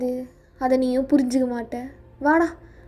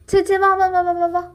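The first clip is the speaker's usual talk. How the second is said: put-on soothing a child; 4 semitones higher than usual. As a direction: coax a crying little one over. Adult soothing a crying child.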